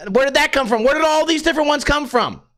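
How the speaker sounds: usual speaking voice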